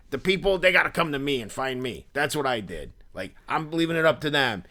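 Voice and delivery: high-pitched, cocky imitation of the guy; intense Philly dude. Seller bragging to a stranger, lightly voiced Philly dude. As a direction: set up a boast as a Philly dude. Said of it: "the impression that I was doing of him".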